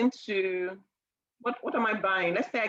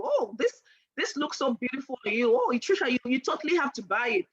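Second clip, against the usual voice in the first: gushing saleswoman; 3 semitones higher, faster than usual. Acted. Acting a gushing makeup seller.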